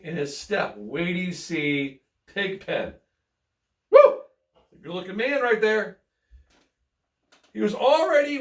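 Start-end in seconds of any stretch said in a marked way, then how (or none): 3.9-4.2 high, loud cheer; excited whoop. Real, not acted. Reader cheering the clean Pigpen, loud excited whoop. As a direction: whoop with delight.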